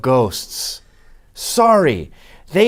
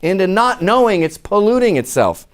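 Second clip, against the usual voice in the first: mock woman voice; 5 semitones higher than usual. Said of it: "Women have to go against their instincts and say".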